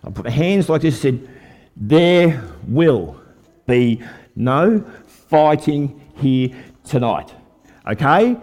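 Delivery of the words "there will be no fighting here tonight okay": slow, measured command; a pastor calmly stepping between two fighters; calm authority. Retold or imitated. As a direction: lay down the law slowly and firmly. Preacher stopping a fight.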